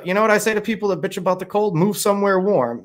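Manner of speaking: a hint of a brisk know-it-all friend; quoting a woman. Friend telling him off about complaining, lightly imitated and brisk. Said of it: "she said".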